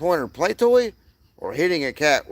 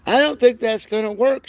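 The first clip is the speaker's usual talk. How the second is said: quoting her doubt; 8 semitones higher, 3 dB louder than usual. Retold or imitated. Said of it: "she says".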